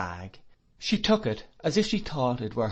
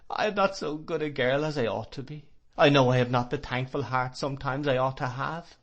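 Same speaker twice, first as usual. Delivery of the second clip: higher, tearful confession; weeping; 3 semitones higher than usual. Acted. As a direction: plead through weeping. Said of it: "still weeping pitifully".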